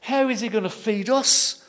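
a touch of laughing orphans; mocking children. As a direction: scoff like cheeky orphans. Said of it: "And they're laughing".

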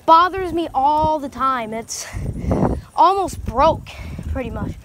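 out of breath from the hill; panting between phrases after a climb; running out of air. Real, not acted. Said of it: "Sorry, I'm running out of breath".

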